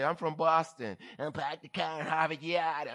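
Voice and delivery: hammed-up Boston accent, quick; a playful Boston brag; mock Boston accent. Preacher joking about how he sounds when he travels, mock Boston accent. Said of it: "Oh, only kidding".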